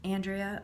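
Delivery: Andrea said AN-dree-uh; short "a" as in "and" to start Andrea; name said as spelled. Shown as a demonstration. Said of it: "but it's spelled Andrea".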